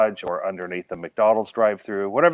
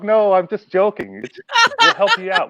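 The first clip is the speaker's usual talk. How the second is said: higher and louder, a chuckle in the voice; laughing it off; 10 semitones higher, 6 dB louder than usual. Retold or imitated. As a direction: let the joke go with a laugh. Retelling, laughing off the joke.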